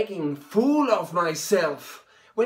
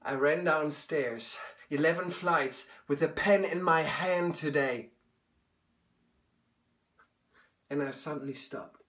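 quiet; 6 semitones lower, 8 dB quieter than usual. Acted. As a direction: pull way down, hushed. Quiet confession to father.

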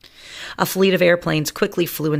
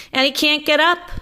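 squeaky mouse; 12 semitones higher, 4 dB louder than usual. Acted. Another mouse.

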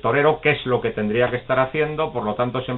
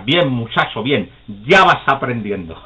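put-on approving old man; 5 dB louder than usual.

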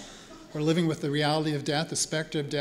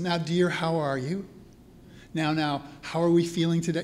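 patronizing caregiver. Retold or imitated. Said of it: "you've heard those platitudes before".

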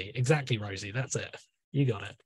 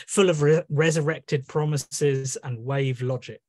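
poetry reading. Acted. Poet reading her poem to an online audience, measured recital. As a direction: read the list poem with weight on each opening.

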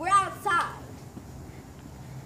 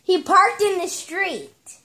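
slow repeat; 5 semitones higher, slower than usual. Real, not acted. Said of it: "What now?".

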